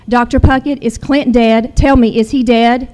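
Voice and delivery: loud, desperate demand on the phone; yelling at the preacher, begging for the truth; retold yelling. Wife on the phone to the preacher, yelling. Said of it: "I'm yelling".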